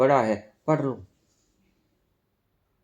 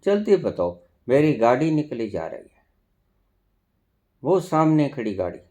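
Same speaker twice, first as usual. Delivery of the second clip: quick, impatient questioning, acted out; mock haste, words hurried along; hurried seeker. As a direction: imitate someone asking on the run. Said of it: "आप भागते भागते पूछते हो".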